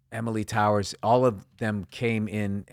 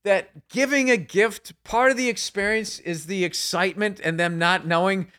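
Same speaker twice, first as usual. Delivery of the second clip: whiny self-mockery; 8 semitones higher, 4 dB louder than usual. Husband whining to wife about ruined surprises, high and childish. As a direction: plead like a sulking three-year-old.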